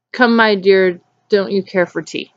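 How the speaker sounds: just read the words off, no acting; no inflection. Real, not acted. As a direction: read out with hardly any inflection. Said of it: "with no whatsoever inflection in my voice".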